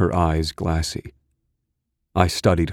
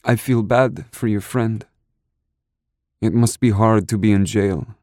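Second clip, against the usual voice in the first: woman's voice; 5 semitones higher than usual. Acted. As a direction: voice her gently, a touch worried. Narrator voices woman character.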